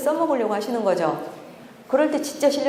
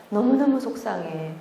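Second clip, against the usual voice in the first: inner voice. Retold or imitated. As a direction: let the hurt show lightly. Voices own inner feeling. (속상한 마음을 살짝 흉내 내며)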